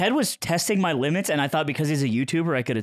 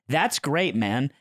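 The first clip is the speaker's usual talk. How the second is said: mildly sincere retelling; genuine, not sarcastic; much slower than usual. Retold or imitated. Answering friend's good time, retold as sincere. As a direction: say it like you mean it, understated. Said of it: "I genuinely said".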